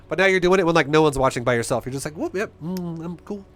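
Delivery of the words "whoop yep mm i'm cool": mock show-off. Mocking showing off alone.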